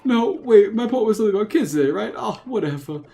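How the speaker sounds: put-on old man voice. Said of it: "the old man voice".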